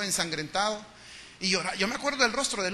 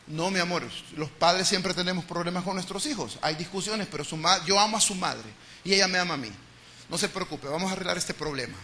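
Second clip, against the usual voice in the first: soothing father; 2 semitones lower, 3 dB quieter than usual. Retold or imitated. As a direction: comfort the child gently. Father calmly reassuring child.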